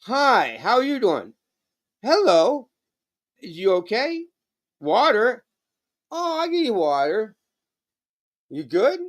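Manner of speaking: put-on baby talk to pet. Owner coos at his parrot in high baby talk. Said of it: "But when you go".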